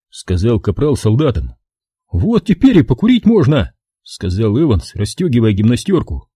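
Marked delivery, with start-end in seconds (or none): 2.1-3.7 higher, brisk smart-aleck private; a wiseacre spinning his theory; cocky know-it-all soldier. A narrator's reading. Evans voiced by narrator.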